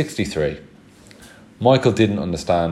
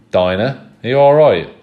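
pitched high and loud, worried; alarmed call; 6 semitones higher, 9 dB louder than usual. Acted. Mother running to Dinah after her scream, alarmed.

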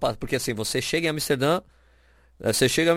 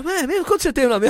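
excited officer; 3 dB louder than usual. Retold or imitated. Officer retold again, delighted.

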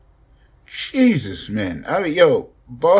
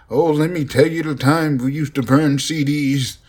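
lightly voiced old man reminiscing; a hint of a rambling grandpa telling stories; old man telling kids about burning CDs, light old voice; 5 semitones higher than usual. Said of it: "I don't know why I said it in that voice".

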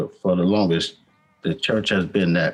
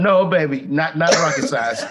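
put-on talking to a child; 8 semitones higher than usual. Mock-scolding a child.

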